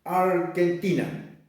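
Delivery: Argentina said slowly with hard k, "Arkentina"; Mapuche-style pronunciation. Shown as a demonstration. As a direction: say "Argentina" as ar-ken-TI-na, drawn out. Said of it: "decimos Argentina".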